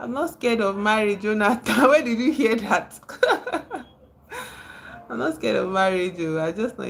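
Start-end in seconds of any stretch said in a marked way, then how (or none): 1.7-3.8 laughing it out in disbelief; high giggly laugh through the words; amused laughing reply. Real, not acted. Laughing at a chat question.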